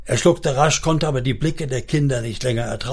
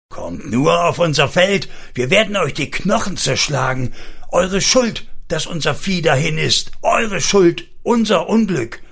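higher-pitched accusing menace; retold threats; 5 semitones higher than usual. Wife quoting farmers who menace the children, retold threats. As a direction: imitate the farmers' threats with rising insistence. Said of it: "Die Bauern drohen schon von weitem".

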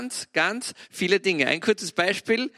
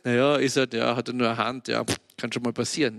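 dismissive shrug; 5 semitones lower, faster than usual. Retold or imitated. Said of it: "der normale Mensch sagt".

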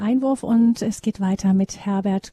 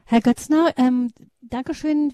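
raised voice cutting the caller off, higher and louder; a loud, higher host stepping in over the caller; firm interruption; 4 semitones higher, 6 dB louder than usual. Real, not acted. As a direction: break in loudly to wrap up the call. Host cuts in on long caller.

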